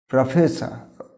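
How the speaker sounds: "প্রফেসর" as prə-fe-sə, no final r; correct pronunciation. Shown as a demonstration. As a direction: say "প্রফেসর" with weak first vowel, silent r. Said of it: "রটা হবে না". ("প্রফেসর" সঠিক উচ্চারণে, প্রাফেসা)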